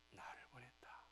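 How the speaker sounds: whispered reveal; soft hushed punchline. Retold or imitated.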